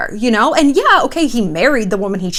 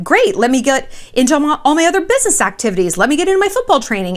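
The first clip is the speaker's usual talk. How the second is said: mock Tom; 5 semitones higher, faster than usual. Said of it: "that I'd be like".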